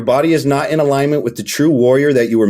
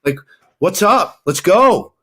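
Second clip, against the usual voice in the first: higher, eager, bouncy questions; upbeat dad; 5 semitones higher than usual. Retold or imitated. Dad asking his kids about school, upbeat and eager. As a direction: pump the kids up about the evening.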